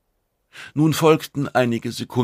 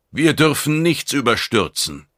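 raised, higher narrated voice; loud announcement; 6 semitones higher, 4 dB louder than usual. A narrator's reading. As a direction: address the whole room firmly and loudly. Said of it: "sagte er laut, damit alle Anwesenden ihn verstehen".

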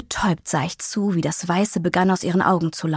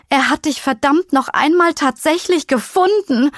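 higher and louder, furious disbelief; angry; 7 semitones higher, 4 dB louder than usual. Acted. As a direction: spit it out in outraged shock. Shocked realization, repeated louder.

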